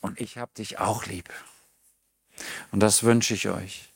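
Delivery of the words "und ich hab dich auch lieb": softer, intimate answer to God; whisper-close thanks returned; soft loving reply to God; tender reply. Pretend. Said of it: "Und wir sagen".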